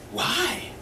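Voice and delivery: a scared little squeak of a question; mock terrified squeak; squeaky frightened Larry. Larry answering the biker, alarmed.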